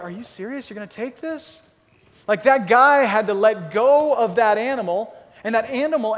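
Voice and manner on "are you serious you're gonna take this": incredulous owner. Retold or imitated. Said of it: "Who was it that was like".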